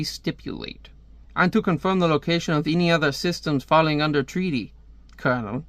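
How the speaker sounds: amateur attempt at a French accent; bad French accent. Comic reader voicing a treaty dispute, bad French accent. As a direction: read it with a poorly faked French accent. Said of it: "me doing the bad French accent".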